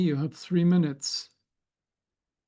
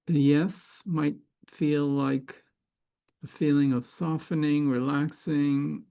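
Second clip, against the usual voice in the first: unhurried meditation guide, long pauses between phrases; guided meditation. Acted. Facilitator guiding listeners to sense yes or no, calm guided meditation. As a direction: guide them inward, leaving space after each phrase.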